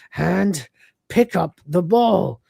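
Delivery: slow, careful attempt at a command; deliberate command. Lister trying out the robotic arm, deliberate command. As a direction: spell out each word slowly.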